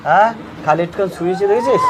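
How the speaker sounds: taunting laugh. Acted. Taunting victim about the blade.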